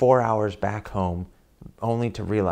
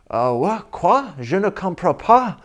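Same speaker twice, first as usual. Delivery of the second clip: high, louder, bewildered French; baffled Frenchman; 10 semitones higher, 5 dB louder than usual. Retold or imitated. Woken Frenchman baffled by angry stranger, high and bewildered. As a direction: rise sharply on quoi, lost and confused.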